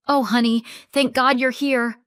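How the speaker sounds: high, loud fake relief; syrupy fake warmth. A narrator's reading. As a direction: lay on the sweetness. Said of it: "That syrupy, affectionate mask".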